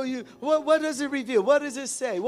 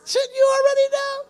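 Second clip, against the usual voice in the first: much higher, louder, mock-incredulous question as Jesus; Jesus challenging; 8 dB louder than usual. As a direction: toss the question back like a teasing teacher. Jesus questions the Jewish ruler.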